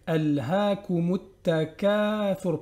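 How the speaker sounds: slow Al-Hakumut Takathur, vowel held; measured Al-Hakumut Takathur; two-beat lengthening. Shown as a demonstration. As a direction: stretch Al-Hakumut two beats. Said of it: "on prolonge là deux temps".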